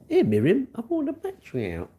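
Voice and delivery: high, carrying call to another room. Real, not acted. Calling to Miriam in another room, high and carrying. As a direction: pitch it up to reach Miriam.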